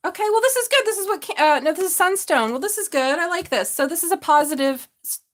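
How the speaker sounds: thrilled over the crystal; delighted. Real, not acted. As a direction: squeal with delight at the stone.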